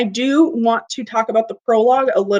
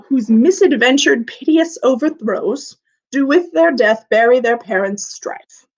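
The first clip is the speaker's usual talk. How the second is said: verse reading. Shown as a demonstration. Teacher reading Shakespeare aloud.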